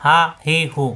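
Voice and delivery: হা হি হু as three short separate beats; no stretch on হা হি হু; quick short vowels. Shown as a demonstration. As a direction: keep each vowel of হা হি হু brief. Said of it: "হরকত উচ্চারণ তাড়াতাড়ি".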